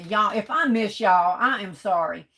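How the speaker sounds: fighting back a sneeze; holding in a sneeze. Real, not acted. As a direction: talk while holding a sneeze. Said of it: "trying to hold in my sneezes".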